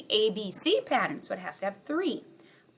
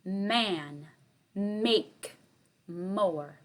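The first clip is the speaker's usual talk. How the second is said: one word at a time with pauses; slow spaced words; 3 semitones lower, much slower than usual. Shown as a demonstration. Teacher reading a word list to kindergarten, slow and spaced. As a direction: read the list slowly so kids can hear the first sound. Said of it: "Okay, I'll say it again".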